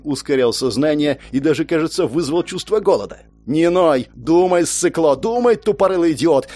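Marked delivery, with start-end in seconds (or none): 3.5-6.5 self scolding. Acted.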